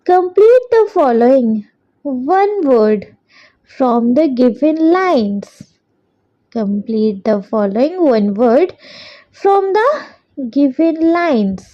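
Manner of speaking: very slow, word by word for copying down; slow dictation. Shown as a demonstration. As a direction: dictate it so children can write along. Dictating second question twice.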